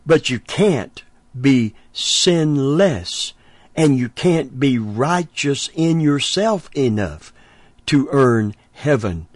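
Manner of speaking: drawn-out pulpit emphasis; preaching emphasis. Real, not acted. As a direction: lean hard on each word. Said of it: "preaching emphasis, slow and raised".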